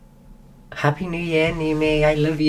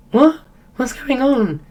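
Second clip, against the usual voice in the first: shocked what; 10 semitones higher, 3 dB louder than usual. Retold or imitated. Reaction to him ignoring Leah.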